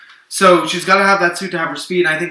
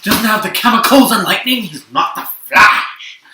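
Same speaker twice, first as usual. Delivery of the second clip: mocking a whiny fan; 5 semitones higher, 5 dB louder than usual. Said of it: "Flash fans out there who are like".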